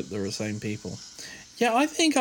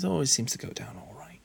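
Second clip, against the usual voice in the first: soft posh voice; lightly done posh voice; 3 semitones higher, 3 dB quieter, faster than usual. Shown as a demonstration. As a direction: put on a posh accent, softly. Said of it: "doing a posh voice".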